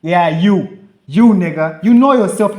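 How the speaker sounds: loud, pointed call-out; calling someone out. Real, not acted. Naming the student barber, loud and pointed. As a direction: jab at him on camera.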